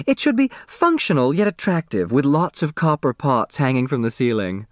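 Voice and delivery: breezy society lady pitching an idea; lightly voiced Grace. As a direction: Grace proposing her decorating plans to the family.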